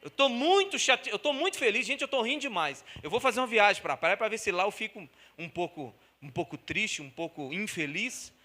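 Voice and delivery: fala irônica e zombeteira; sarcástico. Pretend. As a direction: finge absurdo, com ironia exagerada. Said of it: "você fala assim". (zombaria irônica e fingida)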